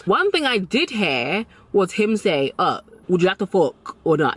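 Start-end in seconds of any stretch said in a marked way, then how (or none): 2.6-4.4 lightly voiced guy making a crude offer; imitating blunt guy. Retelling how a guy propositioned her, lightly imitated bluntness. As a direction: mimic his blunt proposition. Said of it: "That's literally how he said it".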